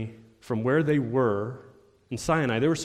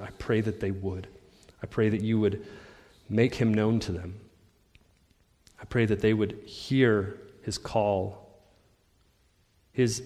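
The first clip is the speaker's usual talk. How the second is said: earnest, measured congregational prayer; spoken prayer. Real, not acted. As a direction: pray aloud in short phrases with long pauses.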